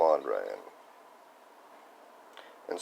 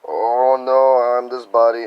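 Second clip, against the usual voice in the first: higher and much louder; mock alarm; 5 semitones higher, 12 dB louder, slower than usual. The ego grasping at the body, a mock alarmed cry. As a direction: blurt it out in a hammed-up fright. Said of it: "You know, like".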